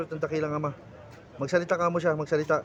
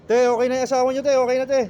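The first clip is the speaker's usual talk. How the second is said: much higher, much louder call across the room; 5 semitones higher, 6 dB louder than usual. Real, not acted. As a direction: shout the good news to her. Calling out to the wife.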